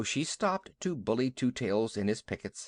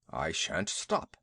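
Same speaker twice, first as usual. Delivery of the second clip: low, slow stubborn elephant; a big sulky beast digging in; 8 semitones lower, slower than usual. Acted.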